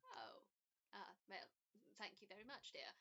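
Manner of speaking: a hint of a kindly, unsure old woman; elderly woman. Elizabeth thanks her.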